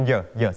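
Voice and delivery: "เหยอะ" as a short "yuh" glide; added "yer" sound. Shown as a demonstration. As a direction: demonstrate the extra syllable "เหยอะ". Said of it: "มักจะออกเสียง เอ่อ เพิ่มมานิดหน่อย".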